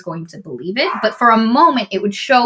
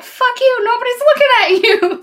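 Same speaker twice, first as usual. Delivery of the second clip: mock scorn; 3 dB louder than usual. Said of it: "Fedra's like".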